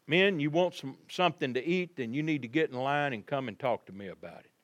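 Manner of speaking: a brusque governor laying down terms; a little rougher. Retold or imitated. Joseph to his brothers, mildly gruff and stern. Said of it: "he spoke in a little rougher voice".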